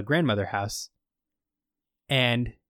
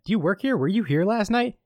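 raised voice; 8 semitones higher than usual. Retold or imitated. Retold villain questioning.

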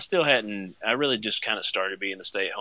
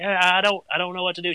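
high, louder panicked stammer; freaking out; 9 semitones higher, 6 dB louder, faster than usual. Retold or imitated. Dad retelling panicking to the friend about the diaper, high and frantic. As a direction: sound helpless and frantic. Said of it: "So I'm freaking out".

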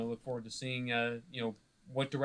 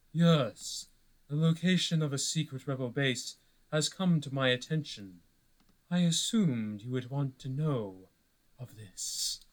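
calm, seductive, almost monotone villain voice; zen-like seductive villain. Acted. A villain reports a rebel base, zen-like and seductive. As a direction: purr the secret to your master like a cool schemer. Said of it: "seductive, uh, almost monotone".

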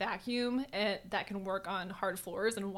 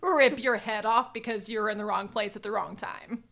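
mock threat; 7 dB louder than usual. Warning Wesley during nicotine rage.

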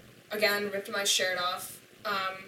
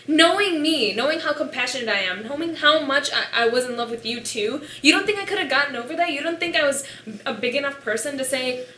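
loud, heated and higher; indignant rant; 6 semitones higher, 12 dB louder than usual. Retold or imitated. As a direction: argue hotly, hurt and angry. Continues angry rant at boyfriend.

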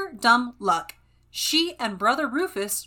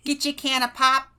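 lightly put-on Minnesotan accent. Shown as a demonstration. Replying to a potluck question, in a Minnesotan accent. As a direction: answer with a touch of Minnesotan accent. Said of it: "a little more Minnesotan".

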